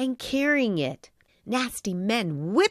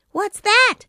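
suspicious; 13 semitones higher, 8 dB louder than usual. A narrator's reading. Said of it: "asked Pinocchio suspiciously".

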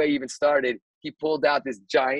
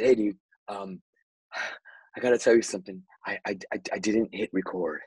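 panicked confession; 6 semitones lower than usual. Retold or imitated. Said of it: "I was panicking".

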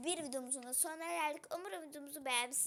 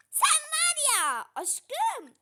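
mock threat; 12 semitones higher, 14 dB louder, much slower than usual. Real, not acted. Threatening husband after prank.

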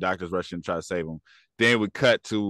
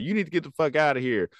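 quick, higher-pitched mock order to leave; rushed, raised-pitch retelling of a quarrel; retold angry dismissal; 6 semitones higher, faster than usual. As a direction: imitate her throwing someone out. Retold hospital quarrel, ordering someone out.

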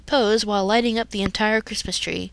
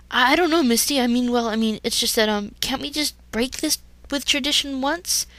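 stumbling nervously; 4 semitones higher than usual. Acted. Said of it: "he stumbled".

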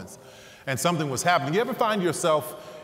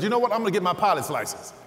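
pitched up, decisive; excited resolve; sudden decision; 6 semitones higher, faster than usual. Retold or imitated. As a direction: announce the new plan, higher.

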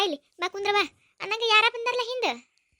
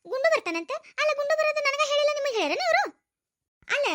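higher, louder indignant demand; angry scolding; 8 semitones higher, 4 dB louder than usual. Acted. Mother-in-law to daughter-in-law, angry higher scolding.

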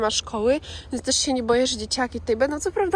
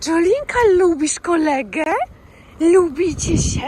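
talking to a dog; 6 semitones higher, 6 dB louder, slower than usual. Real, not acted. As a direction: coo at the dogs. Talking sweetly to dogs.

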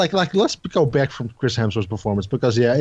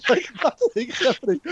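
exasperated high repeat; 14 semitones higher than usual. Real, not acted. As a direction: voice jumps much higher in disbelief.

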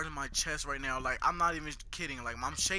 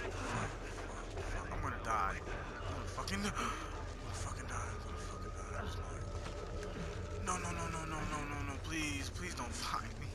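whispering while hiding; 6 dB quieter than usual. Real, not acted. Hiding from monster.

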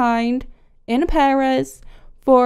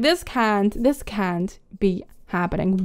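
lower, softer, stunned voice; mock disbelief; 5 semitones lower, 5 dB quieter than usual. Stunned girlfriend who just found out, acted quiet disbelief. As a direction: say it as if overwhelmed, acting. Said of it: "she just can't take it".

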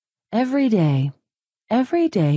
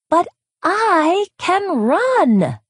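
much higher, louder and slow; yelled; 14 semitones higher, 4 dB louder, slower than usual. Acted. Little Chick yells at Hen, high and loud. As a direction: shout it out boldly. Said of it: "Little Chick yelled".

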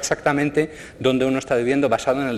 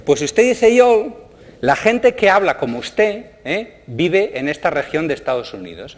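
much higher, louder, slow voice of the app; voicing the app; 6 semitones higher, 4 dB louder than usual. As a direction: read the app's answer up high and slow. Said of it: "me dice". (respuesta de la aplicación, mucho más aguda y lenta)

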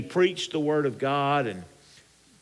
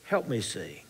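sample prayer; 3 semitones lower, 4 dB quieter than usual. Shown as a demonstration. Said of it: "Just pray and say".

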